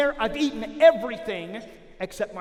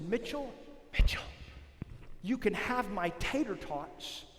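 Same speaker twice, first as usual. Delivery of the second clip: hushed; 4 semitones lower, 9 dB quieter than usual. Retold or imitated. Boy offering tater tots to friend, quiet murmur. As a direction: bargain in a low murmur.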